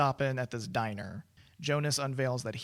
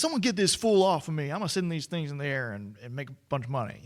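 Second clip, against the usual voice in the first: put-on Southern accent; 4 dB louder than usual. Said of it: "he's doing a Southern accent".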